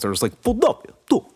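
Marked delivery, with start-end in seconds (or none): 0.4-0.9 Philadelphia mushed like a mouthful of marbles, pitched high; mock Philly, Philadelphia slurred and high; imitating a Philly local saying Philadelphia; Philly accent. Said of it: "sounds like a mouthful of marbles". 1.1-1.2 mock Philly accent, high and mushy; mock Philadelphia accent, Philadelphia mushed and pitched high. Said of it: "when they say Philadelphia".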